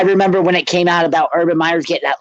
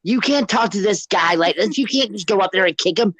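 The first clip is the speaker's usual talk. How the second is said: raised, mock-angry confrontation; a hint of the original fury, higher; retold angry outburst; 3 semitones higher than usual. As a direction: replay telling off the coach, pitched up. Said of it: "And I turned around and said".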